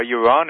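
"Yaron" as yuh-RON; correct pronunciation. Shown as a demonstration. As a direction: stress the open second syllable of "Yaron". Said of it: "Tell me how to pronounce".

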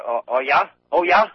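doubtful Maine yankee; Maine accent. Retold or imitated. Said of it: "they'd say".

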